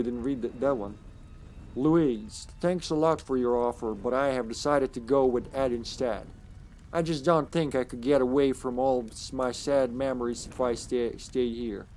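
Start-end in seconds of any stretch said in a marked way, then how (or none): 1.8-11.9 lightly voiced American southern accent. Gamer reading Amy's letter to Louise, southern accent. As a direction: read the letter with a southern lilt. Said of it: "why we have a southern accent".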